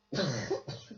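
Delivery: sharp dry cough; real cough. Real, not acted. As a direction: cough hard. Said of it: "I'm so sorry for the coughing".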